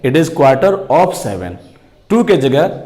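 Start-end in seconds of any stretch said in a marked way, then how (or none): 0.0-1.5 It is quarter of seven said very slowly, lower, stress on of; very slow low dictation, of stressed; slow American model sentence. Shown as a demonstration. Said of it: "American English कहता है".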